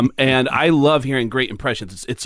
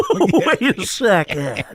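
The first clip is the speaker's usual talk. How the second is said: high, very drawn-out impression; that weird voice; 6 semitones higher, much slower than usual. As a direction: stretch it out in a high, weird cadence. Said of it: "that voice where you go".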